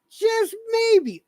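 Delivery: emphatic just maybe. Real, not acted.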